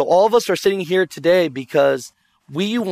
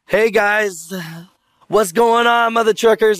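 higher-pitched video catchphrase greeting; show opener; 5 semitones higher than usual. Shown as a demonstration. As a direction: hail your viewers with your signature opener. Demonstrates his show's opening catchphrase.

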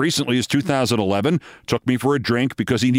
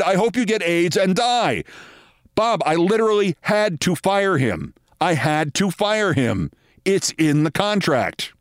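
acted exasperated executive; 4 semitones higher than usual. Executive insisting he had no choice, exasperated. Sorensen repeating his defence to Bob.

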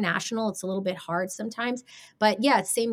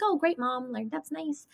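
sarcastic reply; 6 semitones higher, 4 dB quieter, slower than usual. Retold or imitated. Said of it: "Why'd you say it like that?".

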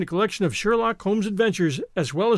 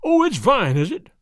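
loud, higher growl of scorn; growled retort; 5 semitones higher, 5 dB louder than usual. A narrator's reading. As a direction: spit it back at him. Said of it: "growled the man".

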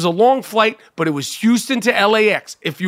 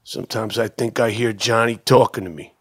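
mock traumatized veteran. Veteran at a press conference facing reporters, anguished outbursts. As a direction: play the haunted soldier at a press conference. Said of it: "that's how I had, I envisioned, uh, the press conference".

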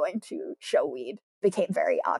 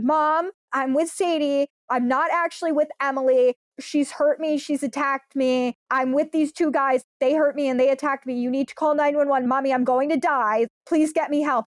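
retold panicked scream; 4 semitones higher than usual. Calling mom for help on the phone, retold panicked scream. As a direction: imitate a desperate cry for help at contained volume. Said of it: "screaming at the top of my lungs".

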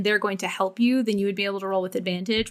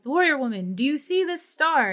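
NPC voice; 6 semitones higher than usual. Acted. GM voices NPC showing star.

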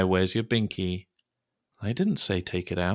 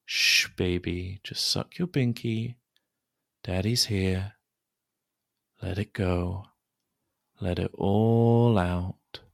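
put-on soothing a child. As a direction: coax him calmly. Calming child.

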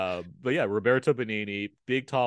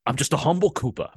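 lightly voiced oil-baron impression; a hint of a film tycoon's voice, a touch louder; Daniel Plainview; 3 semitones higher, 4 dB louder than usual. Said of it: "he's doing Daniel Plainview".

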